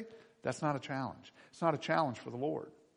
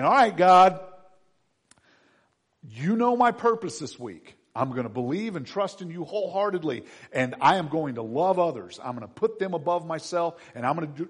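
retold prayer; 3 semitones higher, 7 dB louder than usual. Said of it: "and I'm saying".

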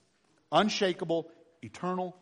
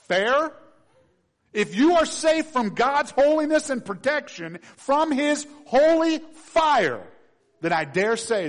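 loud, high fervent preaching; preaching at full force; 11 semitones higher, 12 dB louder than usual. Acted.

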